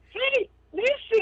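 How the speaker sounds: high, slow piping fairy call; small fairy voice. Retold or imitated. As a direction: pipe it up like a tiny fairy. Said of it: "you hear a small voice say".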